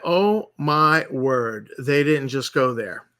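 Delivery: drawn-out, slow mock gasp of disbelief; slow stunned disbelief. Retelling his reaction to the video, slow and stunned. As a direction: let the words hang, slow and stunned. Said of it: "And then I went".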